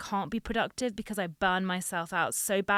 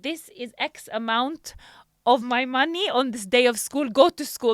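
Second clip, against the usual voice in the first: imitating strict dad; 5 semitones higher, 10 dB louder than usual. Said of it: "my dad was like".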